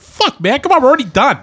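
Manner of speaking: high, exasperated whine with a laugh; retold fed-up protest, half laughing; pissed off. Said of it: "I was pretty pissed about it".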